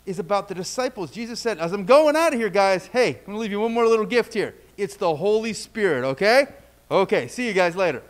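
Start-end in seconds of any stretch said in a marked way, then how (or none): 1.6-8.0 louder, breezy goodbye, lightly acted; casual farewell. Jesus leaving his disciples a gift, casual farewell. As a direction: toss off parting news to friends.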